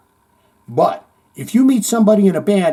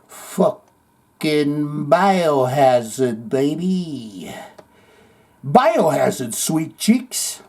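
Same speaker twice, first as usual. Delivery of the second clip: slow cocky swagger; 2 semitones lower, much slower than usual. Retold or imitated. Cocky line to woman.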